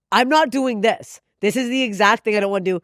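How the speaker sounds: mildly emphatic retold objection; retold refusal. Quotes own past refusal.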